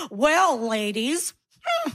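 slow, lightly voiced leering old man.

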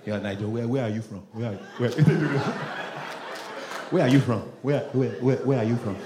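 put-on low, pressing Nigerian accent; Nigerian friend. Nigerian friend testing the comedian, low Nigerian accent.

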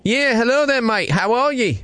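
put-on Australian accent. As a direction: fake Aussie prank caller. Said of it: "using my Australian accent".

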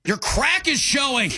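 mock angry shout, drawn out. Shown as a demonstration. Demonstrating the angry take for a co-host, angry. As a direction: shout it high and slow, playing at outrage. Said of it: "You have to say it angry".

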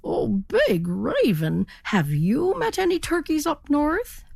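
high, rising, hopeful question; eager turkey. Acted. Turkey eagerly asks the ferry captain, pitched high. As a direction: ask hopefully, climbing high.

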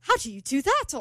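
put-on amateur British accent, puzzled. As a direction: imitate a baffled British man. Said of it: "Archie's doing with the accent".

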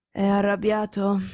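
slow, labored question; breathing with difficulty. Acted. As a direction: ask it while struggling for breath. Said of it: "respirando a stento". (respirando a stento)

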